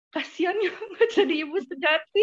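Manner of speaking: mock pity. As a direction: imitate someone's pitying comment with a laugh. Retold pitying comment from others.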